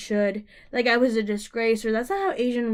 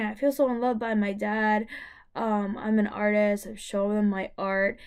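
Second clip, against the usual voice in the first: crying; 2 semitones lower than usual. Retold or imitated.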